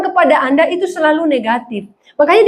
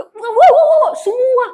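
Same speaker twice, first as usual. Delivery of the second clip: much higher, louder Batak exclamation with a laugh; hammed-up Batak outburst; loud Batak accent; 10 semitones higher than usual. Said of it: "mentor saya itu Batak". (logat Batak yang keras dan tinggi)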